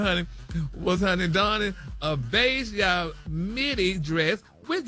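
chatty celebrity news read peppered with honey and y'all; sassy gossip news read. Acted. Radio host reading celebrity news to co-hosts, sassy gossip read.

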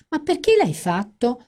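high whiny complaint; whining. A narrator's reading. Fran whining at her friend after she hangs up. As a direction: moan it up high like a sulky flatmate. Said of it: "si lamentò Fran".

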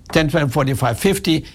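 friendly, even counting; helpful teller handing over change; polite teller counting. Retold or imitated. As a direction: count it out kindly for the customer. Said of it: "What could she have done?".

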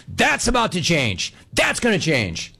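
slow, emphatic mimicked promise; mock a pushy gambler, drawn out; aggressive talker. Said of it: "really aggressively".

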